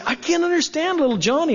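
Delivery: put-on mildly exasperated mom at a loss over her kid; puzzled parent. Parent complaining to the pastor about a child, lightly fretful. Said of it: "Parents come to me and they say".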